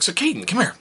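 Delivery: high coaxing call; sly sing-song call. Acted. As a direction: call him over innocently. Luring son.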